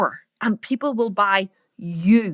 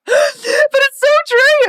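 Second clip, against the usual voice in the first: higher, slow, laugh-choked words; giggling, tearful laughter; laughing through it; 14 semitones higher, 6 dB louder, much slower than usual. Real, not acted. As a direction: laugh as you admit it. Laughing after swearing.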